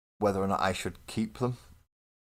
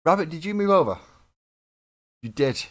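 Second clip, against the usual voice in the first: surprised; 10 semitones higher, 9 dB louder than usual. Real, not acted. Surprised a viewer moved on screen.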